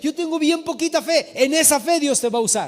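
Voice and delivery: building, insistent pulpit promise; rousing preaching. Real, not acted. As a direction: drive each promise home to the congregation. Preaches at full force.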